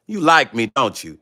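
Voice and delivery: teasing sing-song, dropping low on don't you; taunting. Real, not acted. Taunting the woman who criticized him, smug singsong. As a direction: needle the rival with a smug singsong.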